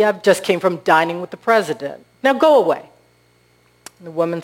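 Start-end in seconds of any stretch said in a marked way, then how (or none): 0.0-2.9 touch of sarcasm, rising to a louder dismissal; dry brush-off, louder at the end; mild sarcasm. Acted.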